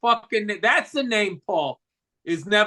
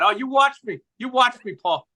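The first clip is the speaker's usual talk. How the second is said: mock defiant boast; 4 semitones higher than usual. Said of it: "imitating Bill's defiance".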